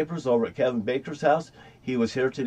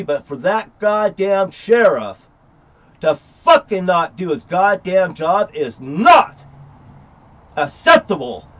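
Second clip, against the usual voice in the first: angry; 2 semitones higher, 6 dB louder than usual. Real, not acted. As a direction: bear down hard on every word. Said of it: "And I am pissed".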